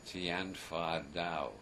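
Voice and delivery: very slow, drawn-out recitation; recited Chinese line. Shown as a demonstration. Speaker introducing the third line, slow recitation. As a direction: stretch out each Chinese word deliberately. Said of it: "the third line".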